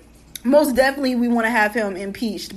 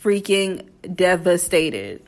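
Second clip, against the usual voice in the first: sad voice. Pretend. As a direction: play up the sadness, half-joking. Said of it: "in my sad voice".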